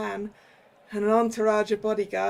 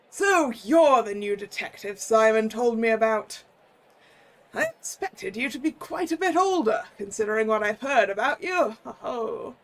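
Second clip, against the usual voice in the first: put-on jolly old curator. Curator meets the detective.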